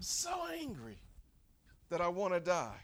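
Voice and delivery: understated take on Jonah's anger; mildly acted anger. Jonah letting God know his anger, mildly angry. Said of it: "just how angry he is".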